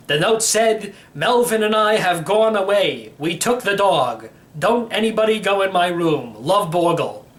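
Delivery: a hint of a cheerful old codger; a lightly voiced old uncle bragging about his car; old great-uncle voice. Uncle reciting his note.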